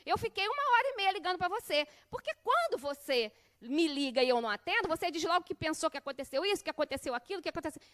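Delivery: mock-voiced teen defending himself to mom; son's rising protest. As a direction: push back with hurt indignation. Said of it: "as duas primeiras palavras foi no tom baixo".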